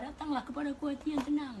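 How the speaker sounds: high, emphatic call of "Datanglah"; rising declamation. Retold or imitated. Preacher repeating God's call to the tranquil heart, high and emphatic. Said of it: "Dia minta satu ya".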